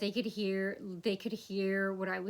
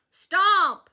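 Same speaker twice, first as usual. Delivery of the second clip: mock stomp call; 9 semitones higher, 11 dB louder than usual. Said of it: "That's all you're gonna do?".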